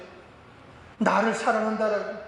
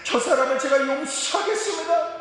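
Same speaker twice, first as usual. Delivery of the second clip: raised, earnest pleading to the Lord; mock pious prayer; 5 semitones higher than usual. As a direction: pray it grandly, a bit hammed-up. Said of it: "내가 주님 앞에 기도하면서".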